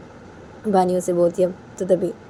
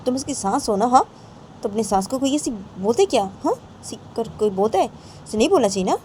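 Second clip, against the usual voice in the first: higher-pitched reproach; acted remonstrating; 5 semitones higher than usual. Abbu reproaching about a mother-in-law, higher acted remonstrating. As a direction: reason with them in a raised pitch.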